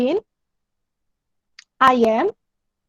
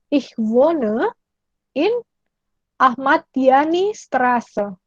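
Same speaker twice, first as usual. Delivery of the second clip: slow example; much slower than usual. Shown as a demonstration. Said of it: "Contoh, misalnya".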